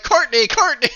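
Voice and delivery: high, loud, flustered fanboy squeal; Jean-Luc, excited. Acted. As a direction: call it out excitedly, as if blushing fiercely. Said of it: "excited, uh, Jean-Luc blushing fiercely".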